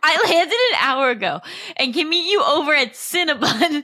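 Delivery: reading aloud through giggles; laughing while reading. Real, not acted. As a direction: try to stay straight but keep laughing. Rereading line, still laughing.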